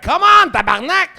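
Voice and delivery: high strained yell of frustration; frustrated yell. Retold or imitated. Straining in bed, he yells out in frustration. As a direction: shout it at the ceiling, straining.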